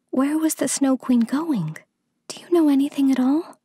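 put-on high, eager little girl's questions; Gerda crying out. A narrator's reading. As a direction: press for news as a child. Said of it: "cried Gerda".

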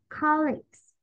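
"colleagues" closed on g-s; G then S ending. Shown as a demonstration. Teacher saying no to the student's try, "colleagues" ending g-s. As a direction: add the final s after g in "colleagues". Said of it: "we will say G and then S".

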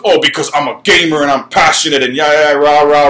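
half-hearted parody of a fan's excuse; mocking gamer excuse. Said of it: "the bullshit excuse of".

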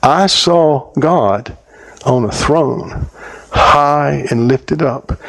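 slow, hushed awe; awed vision. Retold or imitated. Young woman describing her vision of God, slow and awed. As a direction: let each word land in wonder. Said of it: "She said".

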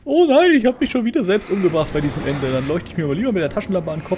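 playfully voicing the writer in his head; mock writer voice. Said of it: "das Ende, was er schreibt".

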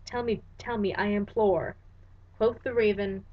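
measured, dramatic recitation of verse; solemn verse reading; poem reading. Acted. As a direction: read it like a haunted poet. Reads The Raven aloud.

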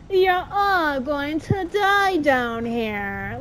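slow, lightly voiced ominous little girl; a hint of the eerie Resident Evil girl, drawn out; creepy girl impression. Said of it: "Just like the girl from the first Resident Evil movie".

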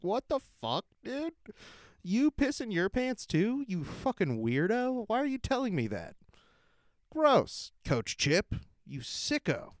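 put-on high, disgusted kid voice, rising to a yelp on gross; a little kid recoiling from his coach in disgust. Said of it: "I just remember being like".

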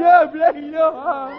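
high mock-whiny echo; echoing baby talk. Boy echoing his mother, high whiny baby voice. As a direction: whine it back like a baby. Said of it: "echoing mother".

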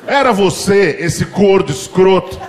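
father breaking into laughter as he tells; half-laughing accusing dad; dad telling it laughing. Retold or imitated.

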